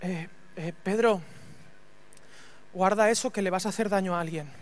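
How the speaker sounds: bajo y grave, sin alterarse; calma conciliadora. Retold or imitated. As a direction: frena a Pedro suavemente, imitando a Jesús. Jesús frena a Pedro con calma. (reprimenda serena, en voz baja)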